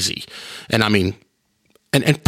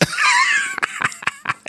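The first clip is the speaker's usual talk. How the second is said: big laugh; 5 dB quieter than usual. Real, not acted. Recalling niece's embarrassed reaction.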